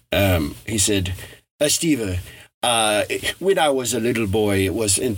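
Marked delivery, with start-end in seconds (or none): 1.6-5.0 attempted Spanish accent. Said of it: "pardon my, uh, Spanish accent".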